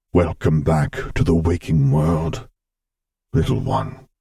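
put-on father figure welcoming a sleepy child, fond and slow; Vader, fond. A narrator's reading. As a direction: greet the waking child slowly and fondly. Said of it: "he greeted fondly".

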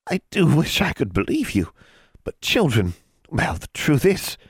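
put-on high, sly old witch; hag voice. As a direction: fake sweetness turning cold.

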